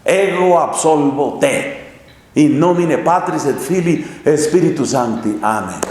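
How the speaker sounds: priest pronouncing absolution. Retold or imitated. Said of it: "Y el sacerdote". (sacerdote dando la absolución, pausado)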